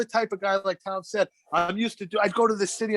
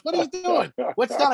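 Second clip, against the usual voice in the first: grandfather's voice; 7 semitones higher than usual. Retold or imitated. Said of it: "And he goes".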